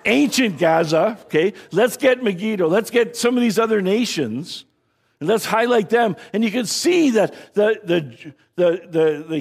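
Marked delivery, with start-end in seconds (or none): 1.7-6.1 cheering crowd. Acted. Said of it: "they're going".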